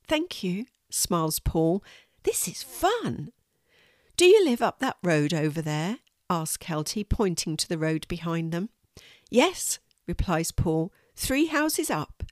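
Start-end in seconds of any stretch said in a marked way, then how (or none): 0.1-0.7 put-on higher child voice; lightly voiced little boy; a boy saying thanks; young boy's thanks. Paul thanks. 2.2-12.2 lightly voiced young boy; small boy. Boy on horse.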